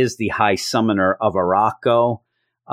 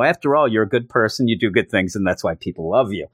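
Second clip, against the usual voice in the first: mock reassurance; 2 semitones lower, faster than usual. The speaker quoting Cable's boast after it backfires, dry mock reassurance. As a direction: toss the boast back at him, falling away.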